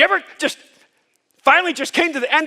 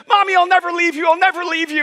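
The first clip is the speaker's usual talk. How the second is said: mock little sister wail; 7 semitones higher, 4 dB louder than usual. Little sister's retold cry to mom.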